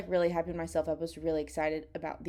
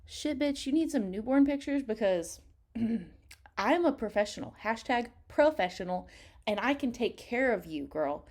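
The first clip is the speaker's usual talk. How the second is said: hyped-up self; 3 semitones higher than usual. Retold or imitated. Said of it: "I was like".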